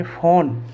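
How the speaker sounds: airy first consonant in फ़ोन; फ़ोन modelled as "fone"; ph sound. Shown as a demonstration. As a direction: say फ़ोन with an "f"-like opening. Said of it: "इसको हम बोलेंगे".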